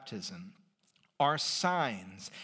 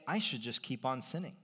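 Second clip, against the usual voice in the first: building from plain to much higher, louder glee; mock gleeful sinner; 10 semitones higher, 5 dB louder than usual. Preacher mocking the objector, building to giddy glee. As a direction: egg on the objector's logic until it's giddy. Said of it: "isn't that just going to make you say".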